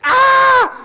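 piercing, high mock-baby scream; hammed-up shriek of a panicked baby. Acting out baby losing mom.

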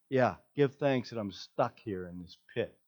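low, dry sarcastic mutter; sarcastic Joseph. Pretend. Imagined Joseph answers the advice, sarcastic and low. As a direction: scoff at the advice from the pit. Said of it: "I was just imagining".

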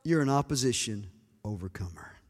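whispered declaration. Real, not acted. Preacher declares over congregation.

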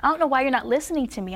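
fast, pleading cry to God; fast, frustrated prayer to God; desperate prayer. Retold or imitated. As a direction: rush it out like you are at the end of your rope. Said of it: "this is really what I sounded like at the end".

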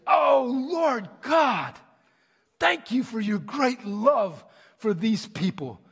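high, slow, fervent prayer voice; passionate prayer. Retold or imitated. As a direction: pour your heart out to God. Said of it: "Never had no Muslim pray like that, such passion, such love".

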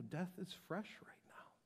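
whisper, death is fresh; soft and private admission; whispered confession. Real, not acted. Personal grief aside.

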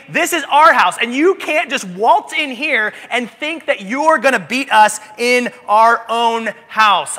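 lightly voiced defiant taunt; mock trash talk. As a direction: boast as if claiming home court.

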